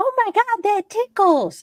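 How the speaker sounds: very high-pitched talking-toy voice. Retelling how the toy went off while the kids slept: imitating Elmo toy voice. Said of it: "Shut the fuck up, Elmo".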